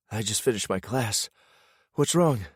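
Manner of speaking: put-on a young wife, concerned on the phone; wife's voice. Wife Nat speaks on phone.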